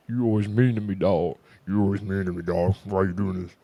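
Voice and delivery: hammed-up complaint, altered voice without the squeak; mock wounded complaint. Girl's complaint replayed as a joke, put-on voice.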